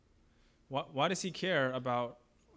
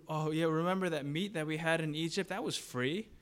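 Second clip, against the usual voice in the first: hammed-up longing reminiscence, pitched up; wistful complaining; 3 semitones higher than usual. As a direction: swoon over remembered food. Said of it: "what were they complaining about?".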